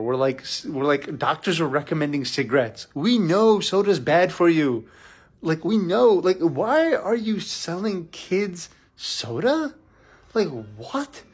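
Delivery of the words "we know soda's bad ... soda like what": indignant rant. Real, not acted. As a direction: drag out the outrage, punching each word. Ranting about soda at kids' lunch.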